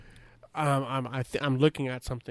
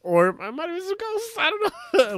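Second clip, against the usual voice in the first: half-laughing; 5 dB louder than usual. Real, not acted. Laughing as he admits ghosts.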